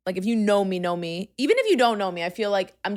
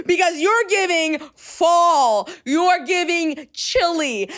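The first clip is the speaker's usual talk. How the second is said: sassy drawn-out tease; 4 semitones higher, slower than usual. Real, not acted. Teasing Laura.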